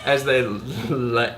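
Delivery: "lay" with the L held and stuck; struggling L. Shown as a demonstration. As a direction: show how the L sticks at the start of "lay", drawn out. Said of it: "so hard to get S's and L's out".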